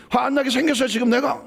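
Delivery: high, indignant comeback; acted flare-up. Angry person answering someone who dismissed them, indignant. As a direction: snap back incredulously, pitch jumping up. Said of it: "화가 작각 올라오죠".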